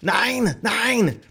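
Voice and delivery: high, loud yelled refusal; yelling. Acted. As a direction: yell it out in a high put-on voice. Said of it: "the Gypsy was yelling at him".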